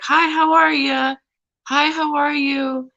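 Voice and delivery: high, slow, sing-song hello; friendly southern greeting. Retold or imitated. Greeting passers-by in Spartanburg, high slow cheerful hello. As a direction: greet everyone warmly on the street, drawn out. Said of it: "I'm used to walking ... like".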